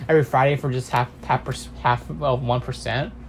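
words between sips of juice; talking while drinking juice; while sipping a drink. Real, not acted. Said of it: "Sorry, I'm just drinking my cranberry juice right now".

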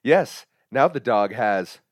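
slow husband punchline. Acted. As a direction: drag out the punchline slowly. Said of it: "I'll even do voices".

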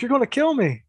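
high, pleading voice; a scared kid's plea, lightly imitated; mock frightened plea. Terrified kid pleading with the man holding a cleaver, high.

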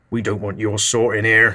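lightly voiced grumpy old man; a hint of a hostile villager. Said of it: "said one".

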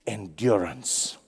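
soft whispered endurance; whispered emphasis. Acted. Preacher stressing endurance to listeners, whispered. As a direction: breathe the word out as a whisper. Dropped word for effect.

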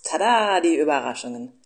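loud bright surprise reveal; excited tada. Acted. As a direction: burst out like unveiling a present. Fox surprise announced.

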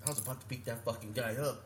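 put-on understated Canadian accent; imitated Canadian accent. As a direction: lightly mimic a Canadian friend's accent. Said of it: "Talking in that Canadian accent".

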